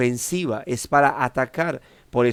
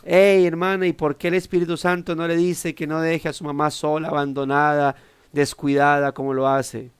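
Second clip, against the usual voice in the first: imagined shout; 3 semitones higher than usual. Retold or imitated. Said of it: "de gritarle".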